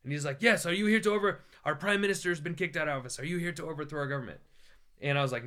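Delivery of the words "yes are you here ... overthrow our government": pressing soldier. Retold or imitated. Soldier pressing the traveler, a higher insistent interrogation. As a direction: push the question home.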